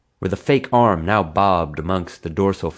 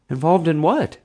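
boyish, higher, playing innocent; 10 semitones higher than usual. A narrator's reading. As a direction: ask like you have no idea. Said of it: "I asked innocently".

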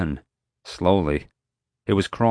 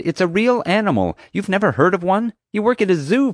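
high-pitched, indignant protest; much higher, exasperated character voice; exasperated insistence; 13 semitones higher, 4 dB louder than usual. A narrator's reading. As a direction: insist as if not being believed. Summer exasperated at disbelieving dispatcher.

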